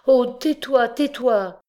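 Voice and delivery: high, loud cry to make him stop; alarmed hush. A narrator's reading. Mother cries out to silence her son, high and loud. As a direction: cut him off in sudden alarm.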